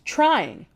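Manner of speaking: "trying" repeated alone, falling and pointed; mock-echo the word trying; stress on trying. Shown as a demonstration. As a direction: isolate "trying" with a dry fall.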